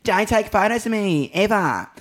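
high, loud mock protest; imitating tour manager. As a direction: imitate her refusing all attention, emphatically. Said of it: "She's like".

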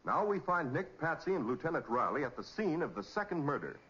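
ordinary talk, nothing marked

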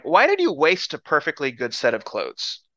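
mock-exasperated prophet; deadpan disbelief at the waste; dry humor. Elisha chiding the king over torn clothes, dry humor. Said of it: "English dry humor".

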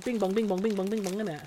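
rough sing-song take on Bajan; Bajan accent. Shown as a demonstration. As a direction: imitate a Bajan lilt with nonsense syllables. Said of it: "Bajan's more kind of".

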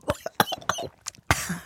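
coughing, spitting it out; spit take. Real, not acted. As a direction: splutter the food out. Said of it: "I've just spat it everywhere".

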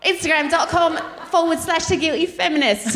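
lightly imitated British nanny accent; mock nanny accent for a plug; Super Nanny. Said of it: "Okay, do Super Nanny".

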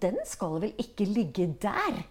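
retold angry remark. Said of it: "ble altså så komplett rasende".

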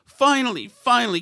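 mocking relief. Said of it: "People are saying".

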